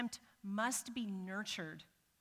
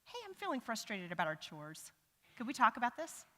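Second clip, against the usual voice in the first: calm request; 2 semitones higher than usual. Shown as a demonstration. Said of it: "saying something like".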